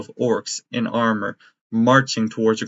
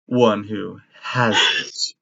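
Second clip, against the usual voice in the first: sinister doctor. Acted. GM voices bird-skull doctor.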